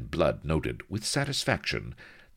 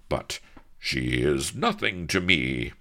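protesting; 3 dB louder than usual. Acted. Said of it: "protested the captain".

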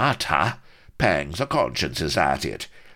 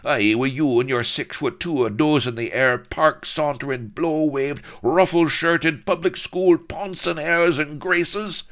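loud, high taunting pirate challenge; furious swaggering pirate throwing down a challenge; raging pirate colonel; 10 semitones higher, 4 dB louder than usual. A narrator's reading. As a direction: bellow the insults at the dandy captain. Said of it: "the raging colonel".

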